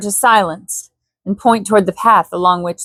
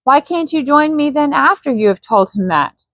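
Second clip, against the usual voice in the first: insisting Jane; 5 semitones higher than usual. Acted. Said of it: "insisted the girl".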